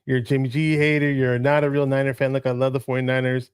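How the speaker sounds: ordinary delivery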